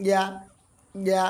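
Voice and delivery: "ইয়া" softly from mid-tongue; soft articulation. Shown as a demonstration. Teacher showing where ya is articulated, soft "ইয়া". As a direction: glide gently into "ইয়া" from the middle of the tongue. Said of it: "জিহ্বার মাঝ হতে নরমভাবে আদায় হবে".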